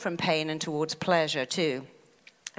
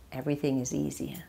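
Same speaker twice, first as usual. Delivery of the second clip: usual speaking voice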